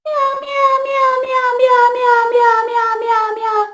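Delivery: high loud meows stepping down; cat meow from the front of the mouth; meow variant. Shown as a demonstration. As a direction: meow with a different placement. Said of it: "Sounds pretty different from".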